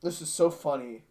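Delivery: flat, toneless delivery; monotone voice. Shown as a demonstration. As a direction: say it with no tune at all. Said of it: "in a monotone voice".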